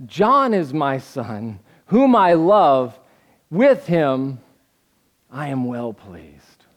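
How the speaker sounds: slow, low and tender; a hint of God blessing his son. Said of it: "and says".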